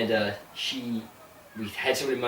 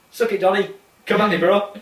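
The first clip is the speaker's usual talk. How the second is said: mock taunt; 9 semitones higher, 7 dB louder than usual.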